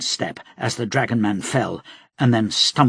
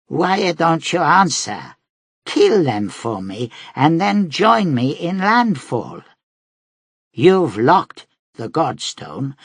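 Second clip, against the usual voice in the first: higher, slow coaxing fatherly appeal; paternal Devori; 4 semitones higher than usual. Acted. Devori pleading with Carpole to join him, coaxing fatherly tone. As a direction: coax the child like a patient father.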